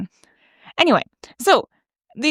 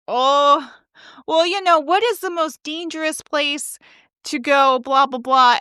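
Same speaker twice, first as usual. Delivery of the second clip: higher-pitched mock audience questioner; adult audience questioner; 4 semitones higher than usual. Adults asking the speaker questions, mimicked. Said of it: "they would be like".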